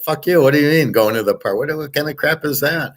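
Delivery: mock-outraged quick reply; retold indignant retort. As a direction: fire back in disbelief, retelling an argument. Retells his indignant reply to her.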